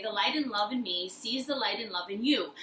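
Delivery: calm mantra, said plainly. Shown as a demonstration. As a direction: say it gently like a mantra. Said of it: "look at them and say".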